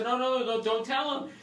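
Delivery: high, hushed begging imitation; mock frantic pleading. Brother replays begging sister not to tell, pleading. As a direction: beg a sibling to keep quiet.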